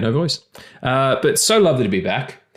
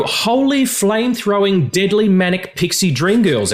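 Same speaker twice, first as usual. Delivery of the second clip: hyped trailer voice; 9 semitones higher than usual. Acted. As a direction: sell it like a movie trailer. Hyped trailer-style show intro.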